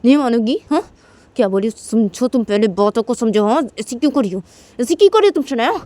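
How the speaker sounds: bully her while grabbing her throat; angry threat. Retold or imitated. Tisha threatening Shanaya while choking her, angry. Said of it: "बोलती है".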